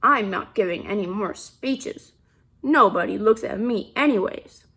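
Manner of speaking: glum refusal. Acted. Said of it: "Officer Buckle frowned".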